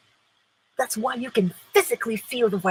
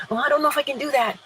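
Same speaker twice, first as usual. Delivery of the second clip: mock doubtful fret; 5 semitones higher, much faster than usual. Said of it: "Instead of".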